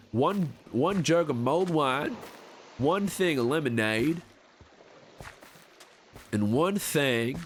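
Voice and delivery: slow western drawl, counting items; slow drawled list. Acted. Streamer listing drinks to chat, slow drawl. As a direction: savor each item slowly.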